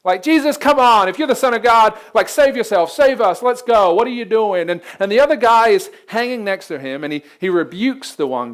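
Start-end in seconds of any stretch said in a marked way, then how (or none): 0.2-4.7 high, taunting jeer from the cross; a thief's sneering taunt, lightly played; mocking jeer. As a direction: taunt him, mock-angry. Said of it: "one of them is cussing him out".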